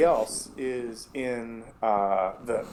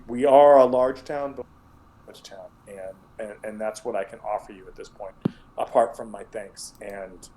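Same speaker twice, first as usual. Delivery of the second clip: sheriff speaking earnestly. Acted. GM voices the sheriff.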